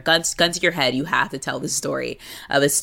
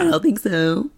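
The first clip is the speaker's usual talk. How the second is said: mock denial; 5 semitones higher than usual. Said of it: "And it's like, oh".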